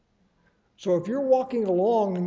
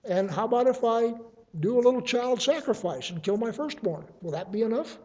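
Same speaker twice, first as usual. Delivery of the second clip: higher, then dropping to a hushed, doubtful end; incredulous rhetorical question; 4 semitones higher, faster than usual. Acted. Prophet's worshipper asking if a child sacrifice is enough, incredulous. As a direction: offer the child sacrifice as the last desperate idea. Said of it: "the rhetorical question is".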